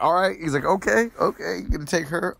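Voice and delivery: a lightly squeaky dragon giving up; mock dragon voice.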